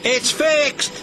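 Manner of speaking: high, excited call; mildly excited call of a signal engineer; cried out. A narrator's reading. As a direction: announce it with a burst of relief. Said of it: "a signal engineer cried out".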